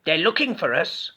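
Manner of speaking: a nervous skeleton. A narrator's reading. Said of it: "said Skeleton".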